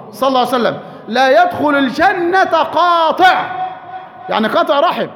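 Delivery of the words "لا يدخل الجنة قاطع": forceful slow proclamation. Real, not acted. Preacher quoting a hadith forcefully.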